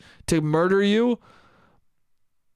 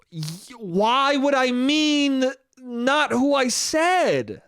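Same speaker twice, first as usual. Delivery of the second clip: laughing disbelief; 8 semitones higher, much slower than usual. Retold or imitated. Exasperated retort to mom.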